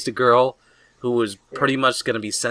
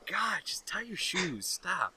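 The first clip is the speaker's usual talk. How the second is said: mock tired parent; 4 semitones higher, 14 dB quieter than usual. Tired parent scolding crying kid.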